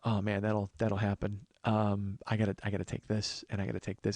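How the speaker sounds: low, soft, deflated voice; subdued sympathy. Retold or imitated. Host takes prizes from bankrupt contestant, subdued sympathy. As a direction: break bad news gently and quietly.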